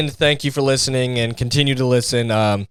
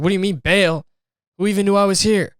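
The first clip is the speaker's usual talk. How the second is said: baffled inmate; 7 semitones higher than usual. Retold or imitated.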